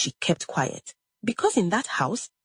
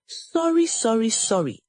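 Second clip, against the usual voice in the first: mocking; 5 semitones higher than usual. A narrator's reading. Mother mocking the girl's repeated apology, sneering. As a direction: throw her sorry back at her. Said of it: "Egodi mocked".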